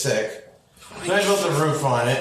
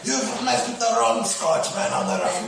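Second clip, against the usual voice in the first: mock yell; 6 semitones higher than usual. Yelling at possum while chasing.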